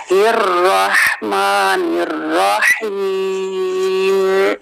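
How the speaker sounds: slow, drawn-out tajweed recitation; Quran recitation. Shown as a demonstration. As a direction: recite slowly with melody. Recites the verse part. (धीमी तिलावत)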